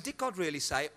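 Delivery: doubting murmur. Acted. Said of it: "We ask that question".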